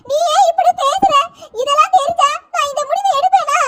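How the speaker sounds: hurt mother protesting to her niece; tearful protest. Acted. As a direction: plead through tears. Aunt hurt by niece's accusation.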